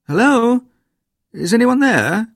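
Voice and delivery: loud, high call into the night. A narrator's reading. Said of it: "he called".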